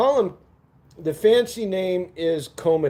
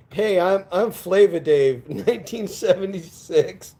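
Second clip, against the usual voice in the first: sleazy disco guy; 3 semitones higher than usual. Retold or imitated. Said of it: "some guy walks up to you and goes".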